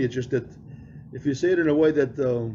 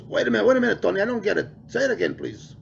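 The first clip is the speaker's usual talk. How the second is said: higher, confused teacher voice; puzzled teacher; 8 semitones higher than usual. Retold or imitated. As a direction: play the baffled teacher asking again.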